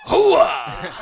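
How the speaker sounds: loud high hooah whoop; shout. Retold or imitated. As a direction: bellow it like a soldier. Mimicking movie catchphrase shout.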